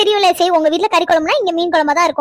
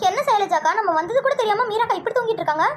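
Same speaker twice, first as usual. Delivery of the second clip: softer voice beside a sleeper; hushed; 3 semitones higher, 6 dB quieter than usual. Acted. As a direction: keep it down, puzzled aside. Talking beside the sleeping Meera. (தணிந்த குரலில்)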